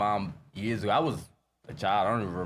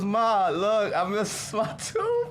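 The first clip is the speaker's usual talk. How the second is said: put-on higher, slow and drawn out like a toothless kid; little boy voice; 10 semitones higher, much slower than usual. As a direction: stretch it out like a kid who lost a tooth. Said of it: "He goes".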